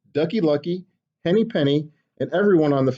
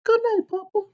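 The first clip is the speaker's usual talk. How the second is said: tuck papa in gently. Acted. Chicken whispers goodnight.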